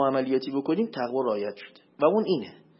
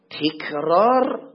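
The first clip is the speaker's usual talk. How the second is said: تکرار stretched very slowly with a rise; drawn-out emphasis; 4 dB louder, much slower than usual. Shown as a demonstration. Preacher to listeners, stretching تکرار slowly. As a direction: say تکرار slowly and rising, letting it hang. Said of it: "برای تأکیده".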